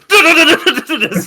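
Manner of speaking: high, loud rattle of running feet; rapid sprinting noise. Pretend. Game master mimicking Skiz taking off, rapid running noise. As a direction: burst out a high patter of running.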